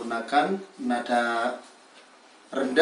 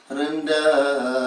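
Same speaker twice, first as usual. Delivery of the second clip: rendah sung lower than turun; 3 dB louder than usual. Shown as a demonstration. Teacher showing the low tone under turun. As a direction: drop below turun on rendah. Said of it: "di bawah nada turun".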